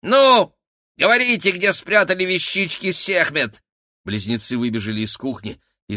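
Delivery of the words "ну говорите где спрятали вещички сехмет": very high, loud squeaky demand; a rat squealing for the loot. A narrator's reading. Rat henchman demanding the goddess's things, squeaky and loud. Felix voice continues.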